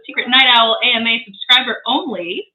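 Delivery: bitcrushed, crunchy distorted sound; lo-fi crunchy mic sound; crunchy audio. Real, not acted. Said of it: "I sound a little crunchy".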